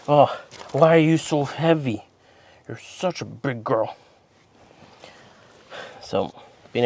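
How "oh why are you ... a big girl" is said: squeaky praising a dog. Real, not acted. Lifting heavy dog, praising.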